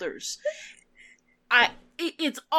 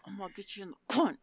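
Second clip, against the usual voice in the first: crude bro voice; 7 dB quieter, much faster than usual. Retold or imitated. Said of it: "Why are you saying it like".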